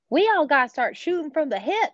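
Jim Justice. Retold or imitated. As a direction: imitate a folksy West Virginia politician. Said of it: "the governor of West Virginia was on".

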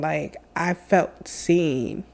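choked up. Real, not acted. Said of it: "Oh my God, I'm getting emotional".

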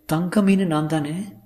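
high, slow, coy question; Sulekha. Acted. Actress asking if she is his goldfish, high and slow. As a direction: draw it out high.

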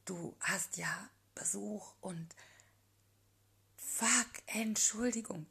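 flustered, hushed whisper with a sharp outburst; embarrassed whisper. A narrator's reading. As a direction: caught off guard, she whispers, then blurts. Flustered, caught out. (Jenny flüstert peinlich berührt, dann ein lauter Ausrutscher)

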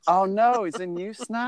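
real high-pitched disbelief; dismayed surprise. Real, not acted. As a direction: leap up in pitch with sudden dismay. Hears railroad is back in use.

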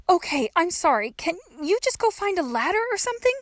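put-on high young girl's voice; pleading. A narrator's reading. Trapped girl begs woman for a ladder, high pleading. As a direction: give in and plead for help.

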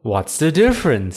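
high, loud baffled questions; puzzled bunny. Acted. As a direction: ask it all in bewilderment. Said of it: "said Banana the bunny".

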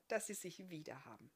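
tonlos geflüstert, ganz leise; geflüsterter Gedanke. Acted. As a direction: denkt es still für sich. Barthamiels stiller Gedanke. (Gedanke leise geflüstert)

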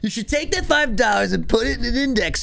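finance guru voice. Retold or imitated. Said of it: "Finance creators".

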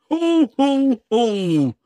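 high booming Santa laugh. Acted. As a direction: laugh like Father Christmas. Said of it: "laughed Santa".

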